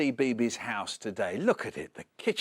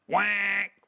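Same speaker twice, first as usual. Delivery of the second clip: tired duck quack; 5 semitones higher than usual. Acted. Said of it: "The duck answered".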